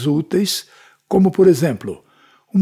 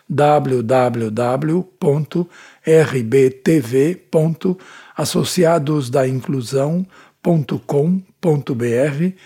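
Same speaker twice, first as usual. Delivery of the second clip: dictating. Acted. Reading out ISSN and web address.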